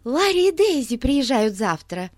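breathless, blurting it out; out of breath, news tumbling out; urgent panting report. A narrator's reading. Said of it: "запыхавшись, выпалила Бетси". (запыхавшись, выпалила новость)

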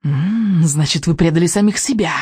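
lightly hissed witch voice; hissing witch. Acted. Witch accusing the vikings, lightly hissing. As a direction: hiss it a little, like a witch. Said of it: "прошипела ведьма".

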